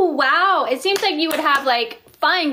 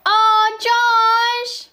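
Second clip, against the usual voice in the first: high, drawn-out, loud gushing; delighted exclamation; 9 semitones higher, 4 dB louder than usual. Real, not acted. Host exclaims to a viewer on the livestream, delighted. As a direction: gush over it, held high.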